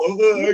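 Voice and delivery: shocked grunt. Shown as a demonstration. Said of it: "And I do a mug, you know, go".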